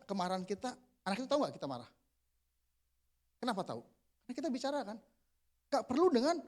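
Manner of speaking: ordinary talk, nothing marked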